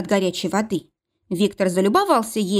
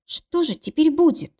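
raised, worried voice; frightened question; 8 semitones higher than usual. Acted. Mila asking Viktor in fear, high frightened question. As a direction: ask it high and anxious. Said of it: "испуганно спросила Мила".

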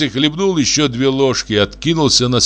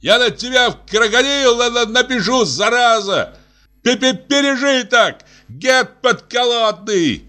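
very high stammering yell; furious high-pitched stuttering shout; shouting after him; 12 semitones higher than usual. A narrator's reading. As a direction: scream threats after the runaway. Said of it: "Сеня крикнул ему вслед".

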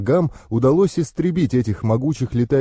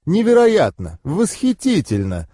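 excited; 6 semitones higher than usual. A narrator's reading. Goddess delighted by dragon.

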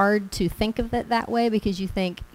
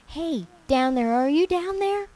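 calling down; 8 semitones higher than usual. Acted. King calls into the pit.

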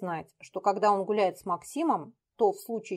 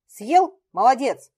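loud high mock praise; 4 semitones higher, 9 dB louder, slower than usual. Дмитрий mockingly praises Петя after he eats. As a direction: praise him with scorn. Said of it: "похвалил его".

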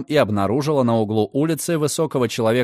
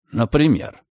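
amused. Acted. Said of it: "явно забавляясь".

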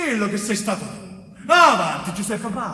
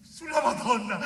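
broken confession; 5 dB quieter than usual. Acted. Giuseppe breaks and confesses.

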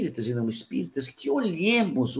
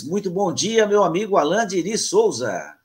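raised, ringing welcome to a guest; announcer-style greeting; 7 semitones higher, 5 dB louder than usual. Real, not acted. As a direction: announce your friend's name like a radio host. Host ceremoniously introduces next guest. (saudação animada de locutor)

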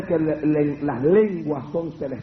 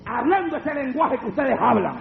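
demon's reply; 6 semitones higher than usual. Retold or imitated. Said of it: "Me dijo".

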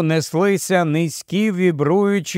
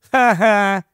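higher-pitched, voiced "ha-ha"; short acted guffaw; 4 semitones higher, 3 dB louder than usual. A narrator's reading. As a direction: let out a brief mock laugh. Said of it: "Едді реготнув". (короткий удаваний регіт)

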